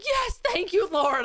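high, joyful burst of gratitude to the heavens; relieved thanks. Retold or imitated. Waking up hungover and finding her face clean, an overjoyed high thank-you. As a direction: squeal it like a prayer answered.

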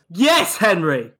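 drawn-out, excited mock hail; acted calling out. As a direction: hail someone across the street, stretched out. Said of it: "He points at you and goes".

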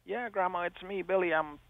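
crying voice. Retold or imitated. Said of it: "crying voice".

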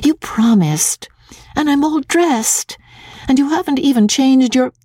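put-on high girlish tantrum; indignant, foot-stamping daughter; petulant cry. A narrator's reading. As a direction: complain hotly, pitched high, at Papa. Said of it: "cried Magnolia, and stamped her foot".

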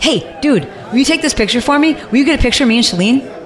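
high, eager fan voice with a laugh; hammed-up excited fan asking for a photo; imitating an eager fan. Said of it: "they're like".

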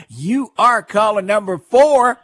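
slow, loud and grand; winner announcement. Real, not acted.

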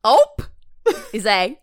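put-on performed Southern accent. Quiz player reading the question, Southern accent. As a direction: read it out in your best Southern twang. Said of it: "in a Southern accent".

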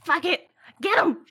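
gravelly little creature snarl; grinding rumbling rock voice. Acted. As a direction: growl it like a small gravelly monster. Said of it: "this little low gravelly voice".

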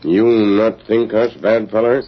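broken English companion. Acted. Tonto speaks broken English.

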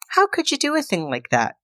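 a malfunctioning android stuck on repeat; glitching robot. Retold or imitated. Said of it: "Bobby begins to glitch".

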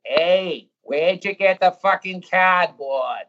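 put-on slow Boston drunk calling out, "Hey, where'd you get the fucking cardboard?"; a Fenway drunk in a thick Boston accent, drawn out. Fenway drunk demands cardboard in the rain, slow Boston accent. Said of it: "do the accent as well as you can".

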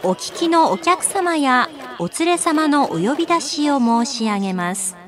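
ultra polite singsong store announcement. Acted.

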